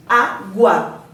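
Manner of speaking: "água" split in two, á then gua; rising diphthong. Shown as a demonstration. Teacher showing a crescente diphthong, syllable by syllable. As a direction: break "água" before gua, sounding u into a as one glide.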